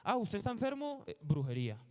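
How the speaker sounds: lightly acted accusation, high question dropping to a verdict; mock church accuser. Medieval Church answering a sick person, lightly mocked accusation. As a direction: pitch the question up high, then hand down the verdict. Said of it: "la Iglesia Católica le daba respuesta a todo".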